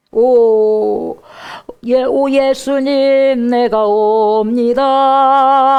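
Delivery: slow, drawn-out, loud call to Jesus; eager believer. Acted. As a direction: stretch each word as if running to him. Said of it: "하고 오죠".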